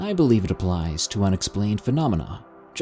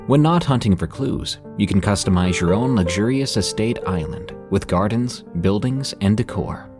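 ad read. Acted. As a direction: sell it like a podcast ad. Narrator reads sponsor ad.

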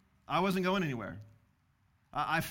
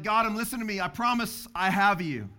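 retold yell; 3 semitones higher, 6 dB louder than usual. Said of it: "And so I yell to him".

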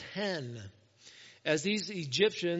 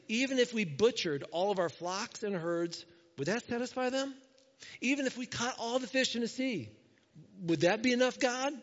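rising, higher-pitched disbelieving questions; incredulous challenge; 4 semitones higher than usual. Acted. Moses doubting God can feed everyone, incredulous questioning. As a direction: push each question up in disbelief.

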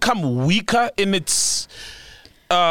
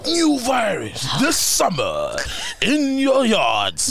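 movie trailer voice; slower than usual. Pretend.

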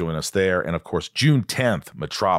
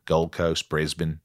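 Aussie-accented place names; lightly put-on Australian twang; 4 semitones lower, 3 dB quieter, slower than usual. Shown as a demonstration. Host listing cities in an Australian accent. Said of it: "I just use the cities".

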